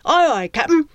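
high, loud eager lackey; snappy pirate salute; eager sidekick. Acted. Flea answers the captain.

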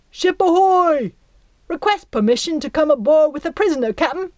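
high, loud fast sailor's call; hailing call. Acted. Flea hails the ship with a prisoner, calling out. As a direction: shout up to the captain.

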